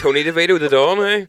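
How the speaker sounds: loud, high hammed-up mafia boss; mock mafia don. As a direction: play up the mob boss for laughs.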